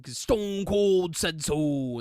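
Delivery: a barely changed, slowed Stone Cold voice; lightly doing Stone Cold, drawn out at the end; Stone Cold impression. Vlogger lightly imitating Stone Cold about the WWE network, barely changed voice. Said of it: "that's my best impression of him".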